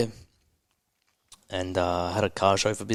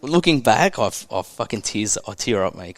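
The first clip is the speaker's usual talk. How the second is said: fighting tears as he looks back; tearing up; 4 dB louder than usual. Real, not acted. Emotional guest near tears on podcast. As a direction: voice catching, holding back tears. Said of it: "I'm fucking tearing up".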